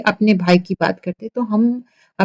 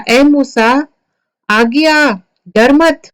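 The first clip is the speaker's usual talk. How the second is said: commanding call; 5 semitones higher than usual. Acted. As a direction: call him back firmly. God calls frightened Moses back.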